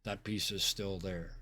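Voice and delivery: low, soft scene-setting; game master narration. Acted. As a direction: set the scene quietly and unhurriedly.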